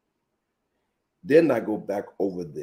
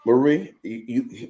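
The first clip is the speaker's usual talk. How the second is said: calling out sharply. Retold or imitated. Mother calling her daughter's name in anger. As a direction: snap the name out to stop her.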